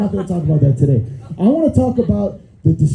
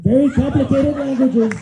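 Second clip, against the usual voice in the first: a hint of Trump, laughing; lightly voiced Trump; Trump impression; 6 semitones higher than usual. Trump impression opening bit.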